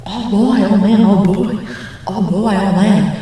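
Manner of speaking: hammed-up oh-boy wailing. Shown as a demonstration. Showing what to do when told, hammed-up loud wail. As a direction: swoop it loudly, over the top.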